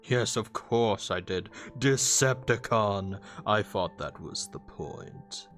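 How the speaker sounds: drawn-out, mocking character voice; smug villain. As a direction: gloat slowly over the one you fooled. Villain gloats at dupe.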